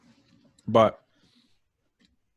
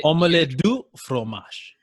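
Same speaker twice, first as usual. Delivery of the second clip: slow hammed-up French accent, a touch higher; mock French accent; 5 semitones higher, slower than usual. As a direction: do the Dexter's Lab fake French line. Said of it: "Shout out Dexter's Lab".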